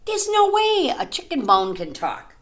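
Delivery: high, emphatic doubting father; father's voice. A narrator's reading. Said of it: "Her father would say".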